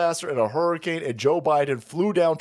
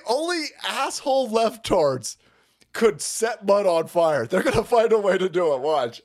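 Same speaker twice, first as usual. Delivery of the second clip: ordinary delivery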